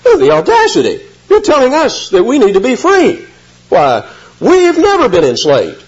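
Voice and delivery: high, hammed-up huffy indignation; mock outrage. Preacher mimicking the crowd's indignant reply to Jesus. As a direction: play the offended crowd. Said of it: "This is like this".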